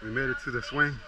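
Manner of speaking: breathless after the climb; panting between words; out of breath. Real, not acted. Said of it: "I'm out of breath".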